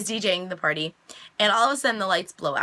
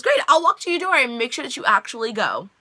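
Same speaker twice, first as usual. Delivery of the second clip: higher, louder, pushy mock eagerness; eager send-off; 4 semitones higher, 5 dB louder than usual. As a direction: imitate hurrying a rival out. Retold eager send-off of rival.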